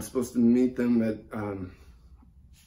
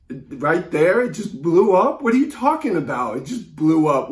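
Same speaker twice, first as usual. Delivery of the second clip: shocked disbelief; 2 semitones higher, 6 dB louder than usual. Acted. Caller hearing the plane blew up, shocked disbelief. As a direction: cry out in stunned disbelief.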